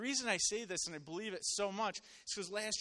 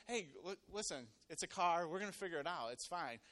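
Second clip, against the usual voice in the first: softer, unruffled reassurance; calm reassurance; 4 dB quieter than usual. Retold or imitated. Husband calming panicking coworkers about the crash, soft and easygoing. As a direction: talk them down quietly.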